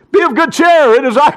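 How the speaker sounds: high, loud call over the storm; calling out to the frightened disciples; Jesus's words. Acted. Jesus calls to his disciples over the storm, high and loud. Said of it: "And he said".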